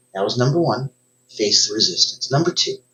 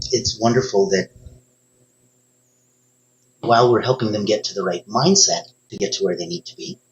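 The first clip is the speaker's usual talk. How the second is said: ordinary talk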